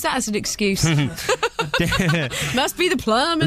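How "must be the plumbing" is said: laughing through the words. Real, not acted. Friend teasing co-host about the plumbing excuse, laughing. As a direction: giggle it out as a running joke.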